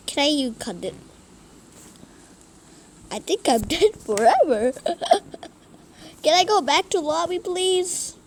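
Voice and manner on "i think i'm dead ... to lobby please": high, loud laughing beg; laughing plea. Real, not acted. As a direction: plead through laughter, fast. Dies, laughs and begs.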